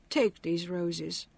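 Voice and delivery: slow, soft and tearful; tearful father. A narrator's reading. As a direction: hold back tears, slowly. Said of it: "he burst into tears".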